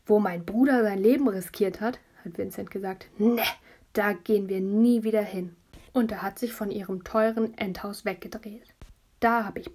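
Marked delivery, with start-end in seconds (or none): 0.1-5.5 louder, hard-man delivery; TV tough guy. Acted. Boy turning from his house, tough-guy vow. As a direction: play the wronged hero from TV. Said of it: "ein Gesicht gemacht wie Männer im Fernsehen".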